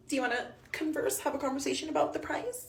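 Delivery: laughing in disbelief as she asks; a real laugh breaking into the question. Real, not acted. Mother laughing at her baby's hospital bill.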